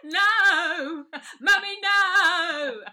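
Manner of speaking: put-on high, loud, slow wailing scream of a terrified child. Child pacing the living room, screaming no at mummy. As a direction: wail it out like a panicked toddler.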